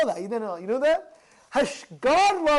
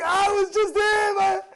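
mock shout; 8 semitones higher, 4 dB louder, slower than usual. Acted outburst over lost money.

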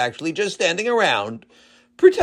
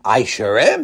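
proud; 3 semitones lower than usual. Acted. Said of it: "said the mayor proudly".

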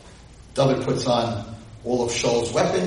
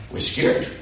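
scared whisper. Retold or imitated. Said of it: "And they're like".

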